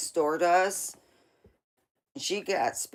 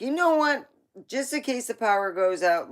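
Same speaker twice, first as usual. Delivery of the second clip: grandma voice; 7 semitones higher, 6 dB louder than usual. Retold or imitated. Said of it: "she was like".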